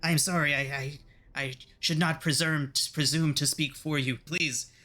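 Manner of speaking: high, cringing imp voice, stammering apologies; grovelling imp. Acted. The backhanded imp grovels before its master, high and cringing. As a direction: beg forgiveness like a struck little servant. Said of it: "Bitter Breath literally just backhands the imp and it says".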